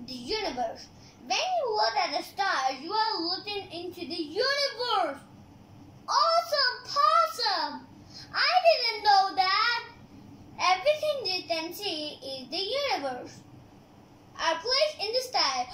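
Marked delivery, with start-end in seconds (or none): 6.1-9.8 excited. Real, not acted. Kid delighted by a fact.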